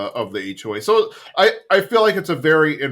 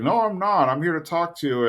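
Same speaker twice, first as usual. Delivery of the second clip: higher mock Hank protest; a lightly voiced, higher Hank denying it; Hank's voice; 6 semitones higher than usual. Hank answering Elvin at the door, higher mock protest. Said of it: "it's like".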